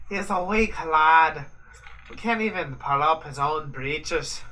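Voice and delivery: put-on British accent, joining the teasing; mock British accent. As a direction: ham up an old English gentleman. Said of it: "We should probably stop the accents there".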